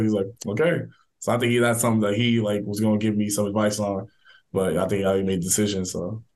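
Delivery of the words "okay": pleased, smiling okay. Retold or imitated. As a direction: let the grin show in the word. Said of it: "you can hear the smile, like, in his voice".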